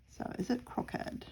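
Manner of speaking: soft whispered question; whispering. Real, not acted. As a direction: whisper to herself. Whispered aside.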